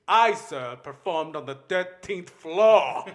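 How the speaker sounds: pompous actor voice. Retold or imitated. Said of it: "They're like".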